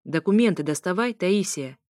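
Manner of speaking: mildly stern order; a touch of strictness. Acted. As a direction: give a firm, understated command. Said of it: "строго произнёс он".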